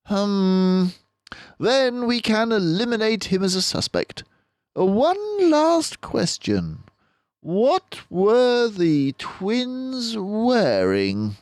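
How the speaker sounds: detective turning to the father, gently; Basil, gentle. A narrator's reading. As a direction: ask gently but firmly. Basil's questioning.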